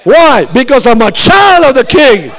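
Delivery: full-force preaching. Acted. Preacher urging the congregation at full force. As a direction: preach it with fire.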